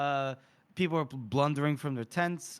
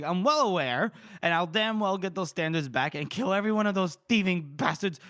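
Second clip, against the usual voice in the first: raised, angry retort; shooting back; 4 semitones higher, 4 dB louder than usual. Acted. Reader voices Mitterick answering Felnick's reproach, shooting back angrily. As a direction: act a general snapping back, somewhat louder. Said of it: "he shoots back".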